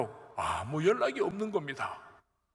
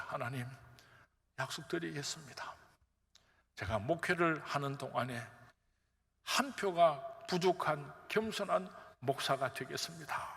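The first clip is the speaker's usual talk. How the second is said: tearful vow; 3 semitones lower, 4 dB quieter than usual. Retold or imitated.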